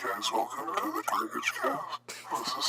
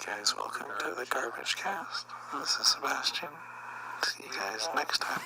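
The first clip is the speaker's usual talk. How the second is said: breathy half-whispered intro; whispery intro; 4 semitones lower than usual. Acted. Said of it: "Sounds like Josh".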